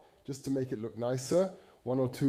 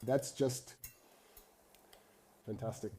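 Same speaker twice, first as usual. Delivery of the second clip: talking while chewing food; mouth full; 2 semitones lower, 6 dB quieter than usual. Real, not acted. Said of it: "You can see how I'm scarfing this down".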